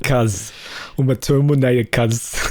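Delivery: exaggerated Aussie Terminator accent; Arnie. Co-host parodying host's too-Aussie Arnie, Aussie accent. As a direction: drop it casually in a mock Aussie accent. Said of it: "the Aussiest Arnie".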